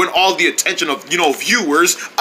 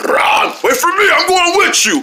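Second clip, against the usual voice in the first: calling out; 12 semitones higher than usual. Acted. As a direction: shout to catch up. Character calling after others.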